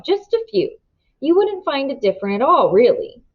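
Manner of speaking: lightly voiced sly stranger, all politeness; smooth, oily gentleman. The man in the yellow suit telling the Fosters, oily and polite. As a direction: purr the news like a helpful stranger.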